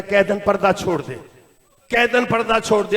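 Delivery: understated villain's demand; retold order. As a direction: order it with restraint. Order quoted before its third repeat.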